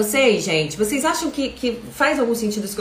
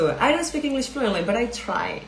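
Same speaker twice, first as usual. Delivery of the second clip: with a smile; 4 dB quieter than usual. Shown as a demonstration. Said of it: "E com um sorriso no rosto".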